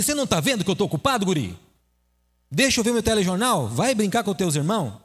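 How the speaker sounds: impatient father brushing off his son; a touch of irritated scolding; annoyed father. Acted. Busy father shooing his son away, mildly annoyed.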